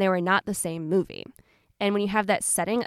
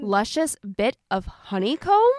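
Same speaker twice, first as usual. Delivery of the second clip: incredulous; 2 semitones higher, 6 dB louder, slower than usual. Real, not acted. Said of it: "incredulous repeat of quote".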